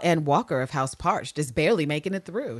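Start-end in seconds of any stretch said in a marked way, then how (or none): none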